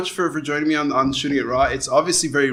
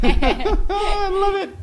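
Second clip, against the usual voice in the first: laughing; much slower than usual. Real, not acted. Delighted by the studio.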